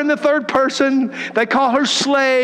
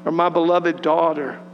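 lower, slow, tender voice of the Father; voice of God; 5 semitones lower, 4 dB quieter than usual. Acted. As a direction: speak as a loving father to his child, unhurried. Voicing the Father's words.

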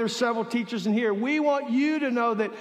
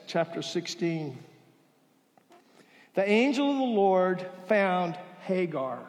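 ordinary talk, nothing marked

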